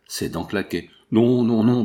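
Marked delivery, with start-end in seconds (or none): 1.1-1.8 stammering plea. Acted. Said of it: "bégaya-t-il".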